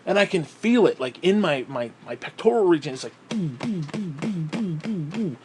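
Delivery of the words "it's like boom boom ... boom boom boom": quiet pulsing boom, boom; soft heartbeat imitation. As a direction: tap out a heartbeat softly.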